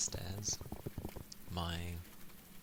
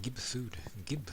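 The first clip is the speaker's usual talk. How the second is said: put-on babyish begging pet, higher pitched; silly dumb pet voice; 5 semitones higher than usual. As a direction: say gib like a dopey dog begging. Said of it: "I'm used to saying gib".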